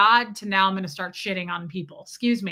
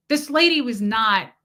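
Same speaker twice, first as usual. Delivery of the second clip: ordinary talk, nothing marked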